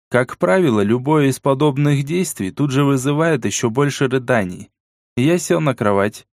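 usual speaking voice

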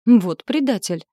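loud indignant outburst; be outraged at the betrayal. A narrator's reading. Bobbi cries out at the traitor demon, loud indignant outburst. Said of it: "возмутилась Бобби".

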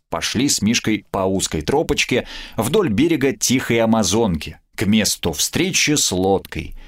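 plain reading voice

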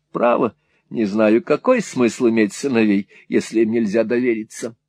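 lightly voiced Mrs Nickleby, fussy and talkative; a hint of a rambling, doting mother; chatty fond mother. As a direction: chat on lightly as a garrulous mother.

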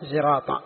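زراطة starting on a clear z; pure zay pronunciation. Shown as a demonstration. Teacher showing al-Asma'i's reading, زراطة with pure z. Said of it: "التي هي بالزاي الخالصة".

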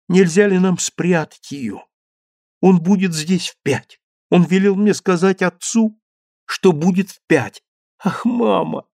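put-on boy anxiously pleading with mother. A narrator's reading. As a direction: press mother to hide the dog.

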